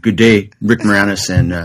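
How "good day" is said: put-on Canadian accent. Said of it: "my Canadian accent tends to be the S C T V".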